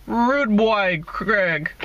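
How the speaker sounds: playful Jamaican callout to Craig; mock Jamaican accent. Teasing Craig with a light mock Jamaican accent. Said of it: "That's how they say it in Jamaica".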